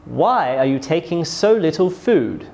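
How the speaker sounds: "Why" strong, "food" falling; falling question intonation. Shown as a demonstration. Teacher demonstrates a W H question, falling tone on "food". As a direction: start firmly on "Why", drop on "food". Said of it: "We use falling intonation at the end".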